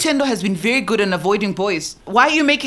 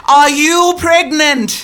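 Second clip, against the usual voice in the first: slow, louder, every word pressed; angry demand; 3 semitones higher, 4 dB louder, much slower than usual. Acted. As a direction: drag the truth out of her. Angry mother confronts daughter.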